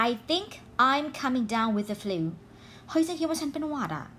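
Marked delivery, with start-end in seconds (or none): 0.1-2.2 very slow, careful reading; slow example sentence. Shown as a demonstration. Teacher reading an example sentence to learners, very slow. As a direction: lay each word out slowly. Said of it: "มาดูตัวอย่างประโยค".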